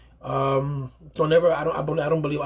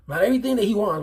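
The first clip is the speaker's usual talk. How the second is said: "Not everything" punched higher and louder; stress on NOT; 6 semitones higher, 5 dB louder, faster than usual. Real, not acted. Telling young fathers what a kid needs, stressing the contrast. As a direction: hit "everything" hard to set wants against needs.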